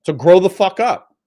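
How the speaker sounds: angry scold. Real, not acted. Ranting at chat.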